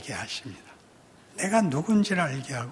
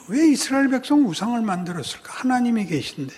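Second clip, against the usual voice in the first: higher, quick, puzzled asking; our puzzled question; 4 semitones higher, 3 dB louder, faster than usual. Shown as a demonstration. Preacher showing how we ask the question, quick puzzled tone. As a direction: ask it like a curious churchgoer. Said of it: "거꾸로 우리는 이렇게 묻죠".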